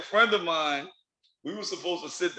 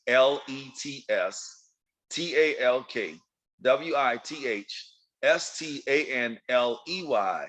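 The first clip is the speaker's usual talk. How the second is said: spelled out slowly; 4 semitones lower, slower than usual. Shown as a demonstration. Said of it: "lets talk with stanley d at gmail dot com".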